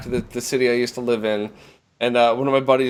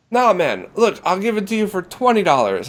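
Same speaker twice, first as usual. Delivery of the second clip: higher-pitched put-on Jamaican accent; 7 semitones higher than usual. Weed seller dropping his price, in a Jamaican accent. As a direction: haggle in an imitated Jamaican accent. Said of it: "that Jamaican accent you did".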